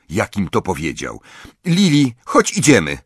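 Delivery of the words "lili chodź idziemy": sharp order, pitched up; high, stern command to leave. A narrator's reading. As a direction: summon your sister curtly, voice raised in pitch. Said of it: "powiedziała ostro".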